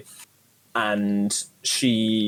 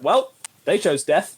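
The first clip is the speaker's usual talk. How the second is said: mock grim; 3 semitones higher, slower than usual. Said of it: "It's like".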